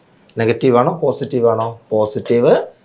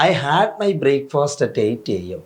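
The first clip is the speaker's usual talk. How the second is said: very slow, every word spaced out; slow classroom dictation of an example sentence; much slower than usual. Shown as a demonstration. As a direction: read it out slowly for students to copy. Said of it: "ഇത് നിങ്ങൾ കണ്ടു കഴിഞ്ഞാൽ".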